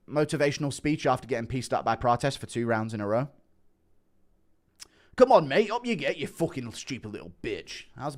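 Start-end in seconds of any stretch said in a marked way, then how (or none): 5.1-7.8 starts much higher and louder, then drops to a lightly voiced coach; rough corner pep talk, yelled then muttered; Bully Aspinall impression. Bully Aspinall giving Leon a motivational speech, loud shout fading to mild. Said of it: "Impression of Bully Aspinall giving".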